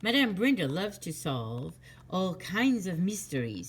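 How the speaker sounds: put-on disguised friend boasting in a French accent. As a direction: proudly announce Madame Brenda.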